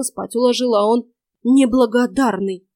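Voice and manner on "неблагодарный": eager agreeing. Acted. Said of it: "поддакнул малолетний ябеда".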